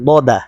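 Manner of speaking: heavy দ from the tongue's back, দা from its tip; tongue back, then tip. Shown as a demonstration. Teacher showing where each letter comes from, articulated apart. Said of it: "একটা জিহ্বার গোড়া থেকে আরেকটা".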